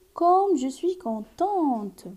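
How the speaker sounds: slow, delighted "comme je suis contente"; joyful exclamation. Shown as a demonstration. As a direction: savour the happiness. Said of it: "cette phrase exprime la joie".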